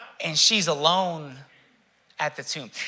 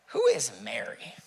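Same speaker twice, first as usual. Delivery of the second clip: soft unvoiced question; hushed, searching whisper; 2 semitones higher, 4 dB quieter than usual. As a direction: breathe the question out.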